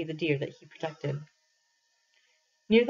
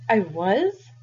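louder surprised outburst; cried out; 2 semitones higher, 6 dB louder than usual. Acted. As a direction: caught off guard, it bursts out. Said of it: "I cried".

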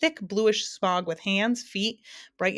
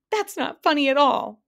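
high, loud, mock-sobbing protest; hammed-up tearful whine; 7 semitones higher, 6 dB louder than usual. A narrator's reading. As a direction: wail it like a hurt child. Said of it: "sobbed the Din".

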